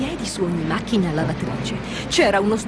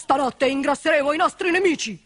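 lightly voiced boastful gang leader; rally the gang with a touch of boasting; 3 semitones higher than usual. Leader readies his gang for attack, mildly boastful. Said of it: "si vantò Grossabotte".

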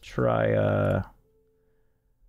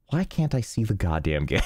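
exasperated yell at the screen; frustrated shout. Real, not acted. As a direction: blurt it out in real frustration. Stream capture won't work.

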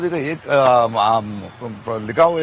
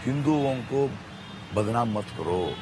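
softer, lower, deliberate pleading of his case; measured explanation; 3 semitones lower, 6 dB quieter than usual. Real, not acted. Guest explains to host whom he opposes, quiet and measured. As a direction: lay it out quietly, phrase by phrase. Calmly spells out his stance.

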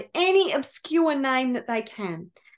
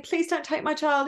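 higher-pitched mock plea; acted desperate pleading; 4 semitones higher than usual. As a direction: beg for your child without real tears. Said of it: "sobbing and pleading".

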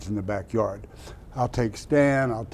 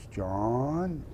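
imitating Mister Rooney; 6 dB quieter than usual. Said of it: "that's the way he talked".

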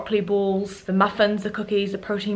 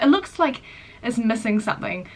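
imitating mum; 2 semitones higher than usual. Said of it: "She's like".

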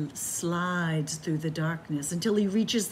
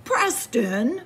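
louder stern call of the name; dad's shout; 5 semitones higher, 6 dB louder than usual. Acted. Dad catching Preston, a stern shouted name. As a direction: call him out like an angry father. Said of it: "shouts his dad".

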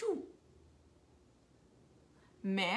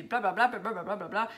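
imitated chatter; faster than usual. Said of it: "ça va parler".

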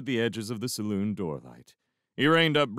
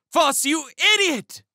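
very high, loud angry scream; 8 dB louder than usual. A narrator's reading. Dell at Foss swinging at the stranger, screaming. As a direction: scream it in exasperation.

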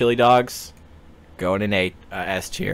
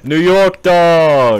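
put-on slow, high, hammy New York accent; 8 semitones higher, 7 dB louder, much slower than usual. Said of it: "the worst New York accent I could have possibly done".

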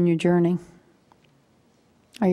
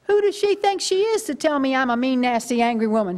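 starts much higher, offended and huffy; indignant outburst; 4 semitones higher than usual. Retold or imitated. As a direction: sputter back in wounded outrage. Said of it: "And I went to".

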